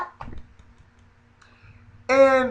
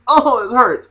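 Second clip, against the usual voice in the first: mock pain; 4 semitones higher, 4 dB louder than usual. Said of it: "and then you go like".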